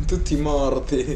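ominous. Pretend. Spooky joke about players dying.

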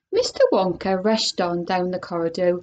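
lively storybook read-aloud; animated picture-book narration; reading to children. Acted. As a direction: read it like story time for kids. Reads a chapter aloud to children.

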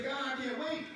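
high, loud pleading cry to the Lord; fervent cry. Acted. Preacher leading the church in a loud, desperate plea. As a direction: cry out as if you can't wait another second.

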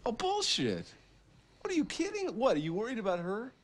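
high, loud incredulous shouting; furious yelling. Acted. Man yelling at his brother in furious disbelief. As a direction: blow up at him in disbelief.

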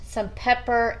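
ordinary talk

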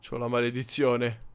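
gloomy realization. Acted. Telling his friend he is cursed, slow and dejected. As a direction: let the bad news sink in slowly.

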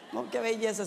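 said with a chuckle; laughing. Real, not acted. Preacher delighting in María's zeal, laughing through it. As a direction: let the laugh carry the words.

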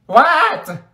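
high, exasperated squawk; high-pitched demand; impatient what. Acted. Impatient reply to withheld secret.

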